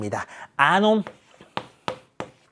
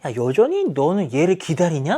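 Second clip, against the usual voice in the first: judging. Acted. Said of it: "판단 내리듯이 이렇게 얘기하는".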